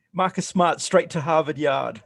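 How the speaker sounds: put-on playful Boston accent, Harvard Yard with dropped r's. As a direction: ham up a Boston accent for the call. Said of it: "with the accent there?".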